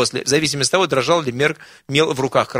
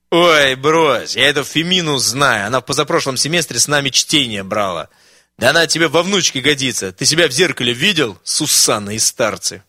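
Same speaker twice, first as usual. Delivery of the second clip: scolding; 4 dB louder than usual. Acted. Friend scolds the smitten old man.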